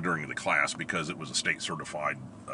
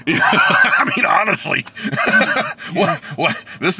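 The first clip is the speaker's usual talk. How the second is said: high, loud laughter through words; laughing hard; 9 semitones higher, 9 dB louder than usual. Real, not acted. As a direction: laugh as you talk. Laughing at the story.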